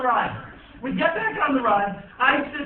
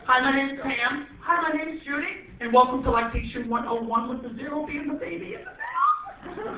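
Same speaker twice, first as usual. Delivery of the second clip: mock perky hosts; 3 semitones higher than usual. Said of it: "They're like".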